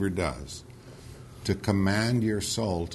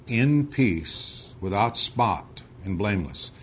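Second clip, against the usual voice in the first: measured, solemn Bible reading; unhurried recitation of scripture; 3 semitones lower than usual. Acted. Reads scripture aloud.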